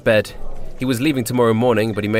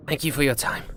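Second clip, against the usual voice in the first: bitter mumble; 4 semitones higher, 5 dB quieter than usual. Acted. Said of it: "mumbled out bitterly".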